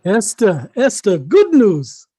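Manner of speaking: calling out good news; excited announcement. Acted. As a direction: burst in with happy news, drawing it out. Uncle arrives calling out news.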